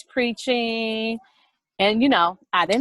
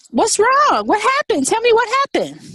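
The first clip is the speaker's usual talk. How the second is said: high, loud, frantic parent; alarmed questioning; 12 semitones higher, 6 dB louder than usual. Retold or imitated. Mother questioning her upset child, alarmed. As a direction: demand answers in a raised, high-pitched voice.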